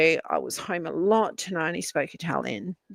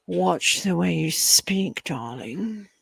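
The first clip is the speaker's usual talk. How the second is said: slow, hushed posh drawl; posh English; much slower than usual. Shown as a demonstration. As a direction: put on a slow posh voice, breathing darling. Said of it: "I speak a little bit posh".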